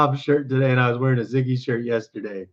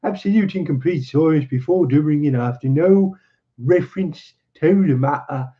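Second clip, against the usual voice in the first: higher, performed voice for the tale's teller; story narration; 3 semitones higher than usual. Acted. Engineer telling his strange story to his listeners, narrated in character. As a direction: read it out in character as the visitor.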